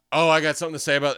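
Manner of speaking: gasp, then quick eager mock mom; imitating mom. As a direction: ham up her jumping in. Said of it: "my mom is like, the first person to be like".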